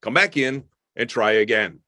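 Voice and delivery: put-on firm but kind coaching a child; lightly voiced firm parent; firm parent demo. Shown as a demonstration. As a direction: directive parent, clear and steady. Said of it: "I would say".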